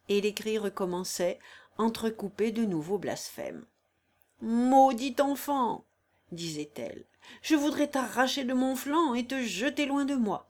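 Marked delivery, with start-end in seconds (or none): 4.4-10.5 cursing woman in labour. Acted. Corilla curses her unborn child, enraged. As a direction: spit out the curse, then rage higher.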